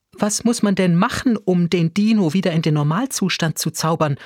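worried, pressing for an answer; nervous question. A narrator's reading. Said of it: "fragte unsere Lehrerin nervös".

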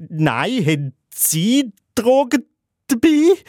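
high, flustered counter-question climbing at the end; hammed-up overwhelmed squeak, rising sharply; completely overwhelmed. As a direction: blurt it back, pitch shooting up in mock panic. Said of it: "ich bin völlig überfordert und sage".

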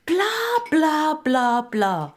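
high, mocking blah-blah; venomous retort. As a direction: throw it back spitefully. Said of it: "gibt Kauthar giftig zurück". (giftig und hoch zurückgegeben)

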